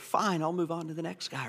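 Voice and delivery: gentle, loving, accepting tone. Imagining how David might answer: imitating David's loving reply. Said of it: "He's gonna lovingly say".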